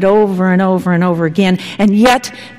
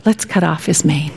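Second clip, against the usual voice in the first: mocking crowd; 4 semitones lower, 5 dB quieter than usual. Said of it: "they say".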